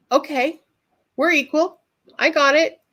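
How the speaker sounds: high-pitched retold reply to a pet; small high acquiescing voice. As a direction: give in to the cat in a high little voice. Acting her reply to the cat.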